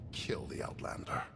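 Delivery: breathy whispered command; whispered order. Acted. Crime boss secretly whispers a kill order.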